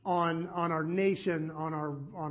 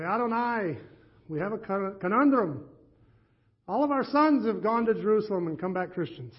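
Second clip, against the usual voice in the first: put-on Yiddish accent; 3 semitones higher than usual. Three men pray to God in a light Yiddish accent. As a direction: pray with a mild Yiddish lilt. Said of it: "they begged me not to do the accent".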